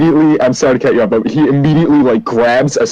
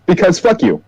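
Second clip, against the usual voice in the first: smug villain retort; 8 semitones higher than usual. Acted. NPC mocks players with prayer hands.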